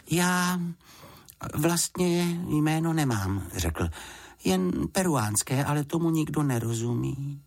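a cub admitting he has no proper name; shy little bear. Acted. The bear telling Mrs Fousková he has only a Peruvian name.

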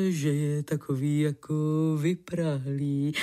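lightly voiced low, slowing male complaint; complaining man. A narrator's reading. Man complains to the lady on the walk home, lightly acted low complaint. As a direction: narrator hints at a man's low-voiced grumble. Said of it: "Cestou si on stěžoval".

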